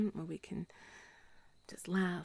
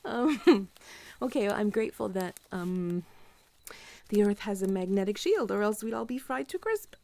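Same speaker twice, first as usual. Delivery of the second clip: playful excited; 8 dB louder than usual. Real, not acted. Joking aloud, grateful list.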